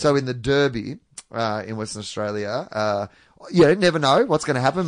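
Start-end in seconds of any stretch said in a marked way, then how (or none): 0.0-1.0 Derby with an "ur" vowel, as "DUR-bee". Shown as a demonstration. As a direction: say Derby like "durby". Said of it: "they say Derby".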